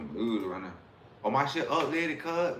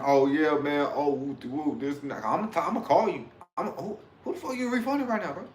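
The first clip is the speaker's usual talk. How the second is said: mock phone call; 2 semitones higher than usual. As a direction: imitate a guy calling to complain. Mocking a seller on the phone.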